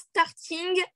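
slow, halting English in a thick French accent; bad English accent. Real, not acted. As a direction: stumble through English words with a French accent. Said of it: "un accent anglais très, très nul".

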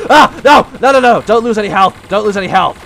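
sharp alarmed yells; panicked shout. Real, not acted. Gamer yelling at the screen while taking damage, panicked shout. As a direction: cry out as the hits land. Player panics under fire.

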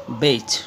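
"বেইজ" said carefully with a voiced final j; correct pronunciation. Shown as a demonstration. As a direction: model the word "বেইজ", ending on a voiced j. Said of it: "সঠিক উচ্চারণ হবে বেইজ".

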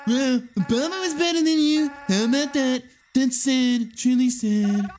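Trump voice. Acted. Game Trump flattering Hillary, brash loud impression. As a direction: puff up like a boastful president. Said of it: "my Trump voice is too good".

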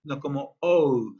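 oh said as a full rounded vowel; open oh. Shown as a demonstration. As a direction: say oh, not a flat O. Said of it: "no la decimos como solamente O". (oh como vocal redonda)

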